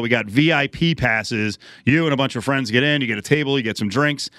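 punchy announcer read of the contest line; radio promo read. Acted. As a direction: sell the party like a live ad.

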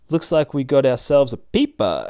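loud, sneering villain line; menacing zombie woman. Acted. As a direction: zombie prostitute catching the peeper, loud and menacing.

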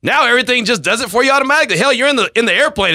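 laughing indignant rant over the pre-internet jab; mock outrage. Real, not acted. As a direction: bellow back at the cheeky question. Mock outrage at millennial question.

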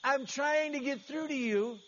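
a loud cry on Lord, then urgent pleading; desperate call. Retold or imitated. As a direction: call out to God as if he's not listening. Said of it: "he's almost rhetorically saying".

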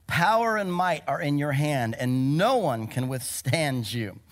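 preacher's bold declaration; declared prayer. Acted. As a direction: proclaim it boldly to God. Reads Jehoshaphat's prayer with force.

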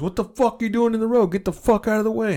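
high-pitched mock outrage; imitated angry driver. Driver ordering a man out of the road, mock anger. Voices driver cursing at him.

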